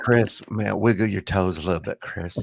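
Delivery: low, softening bedtime-narrator voice; Matthew McConaughey. Acted. App reader talking Chris to sleep, low soothing impression. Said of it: "he actually puts your name in it".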